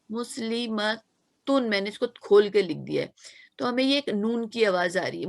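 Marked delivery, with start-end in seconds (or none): 0.1-1.7 मुस्लिमतुन drawn out very slowly, leaning on the final नून; slow clear demo. Shown as a demonstration. Teacher to students, pointing out the नून sound, slow demo. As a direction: stretch मुस्लिमतुन so every sound can be heard, ending on a clear नून. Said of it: "एक नून की आवाज आ रही है ना मुस्लिमतुन में".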